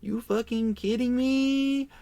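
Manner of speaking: high, loud, furious comeback; telling off the driver who wants a rental car, high and loud; incredulous angry retort. Retold or imitated. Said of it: "he's sitting there screaming at me".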